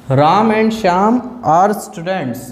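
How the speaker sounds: slow, with Shyam drawn out; slow dictation. Shown as a demonstration. Teacher dictating a plural example to students. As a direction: read it out slowly for the class.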